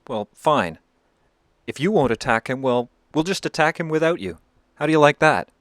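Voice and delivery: a snubbed officer lashing out in a huff; indignant outburst. Acted. Spurned Frenchman threatens angrily.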